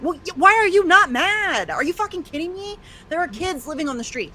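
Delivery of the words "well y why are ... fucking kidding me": angry outburst. Real, not acted. To people who aren't outraged, real angry challenge. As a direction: throw the question at them in real anger. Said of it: "It makes me angry".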